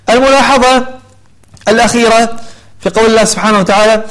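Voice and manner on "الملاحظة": ordinary talk, nothing marked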